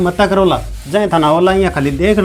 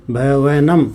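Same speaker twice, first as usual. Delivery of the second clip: "भवनम" pulled apart into भ-वे-नम; careful dictation of "भवनम", each part held; syllable by syllable; 3 semitones lower, much slower than usual. Shown as a demonstration. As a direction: sound out "भवनम" in separate, stretched syllables. Teacher repeats word broken into syllables.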